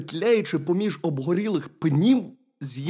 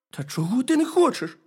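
hedgehog character; 10 semitones higher than usual. A narrator's reading. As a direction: urge the bear as a lively little hedgehog.

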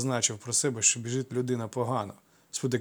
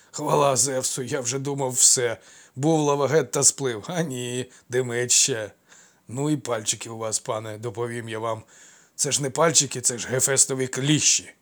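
relieved babble; 6 dB louder than usual. Acted. Servant relieved, joking, rubbing neck.

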